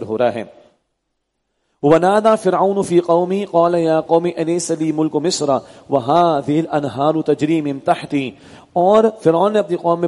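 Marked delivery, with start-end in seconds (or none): 1.8-8.3 measured, chanted Arabic recitation; Quran recitation. Acted. Teacher recites the verse to his class, in measured chant. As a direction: intone the verse as in prayer.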